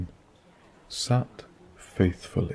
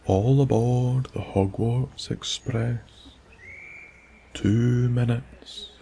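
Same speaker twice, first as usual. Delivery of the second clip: mild bellow; 4 semitones higher than usual. Acted. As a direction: call out to the platform, understated. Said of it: "A voice bellowed".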